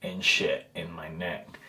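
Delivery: breathless and soft after a big meal; gasping a little, too full to breathe; out of breath. Real, not acted. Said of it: "And I can't breathe".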